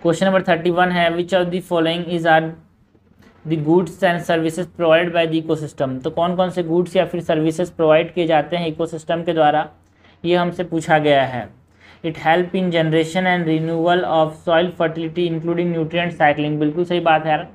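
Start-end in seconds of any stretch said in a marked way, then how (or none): 1.1-6.0 slow, even question reading; measured textbook read-aloud. Acted. 12.0-16.6 slow, even question reading; measured textbook read-aloud. Acted. Reading out an option.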